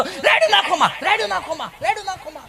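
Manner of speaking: mock the TV serial's sweetness; Anupama-style husband. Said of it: "જો અનુપમા બોલ્યો તો".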